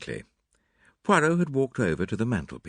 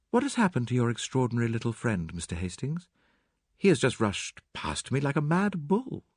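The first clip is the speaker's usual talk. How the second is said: Mary Cavendish; 4 semitones higher than usual. Acted.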